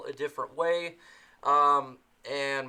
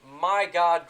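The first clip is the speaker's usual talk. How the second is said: surprised; 2 semitones higher, 5 dB louder than usual. Real, not acted. Surprised by donation.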